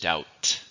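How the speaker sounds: "doubt" drawn out slowly as "dowt"; silent B. Shown as a demonstration. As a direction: slowly model "doubt" with no B sound. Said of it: "there's no B".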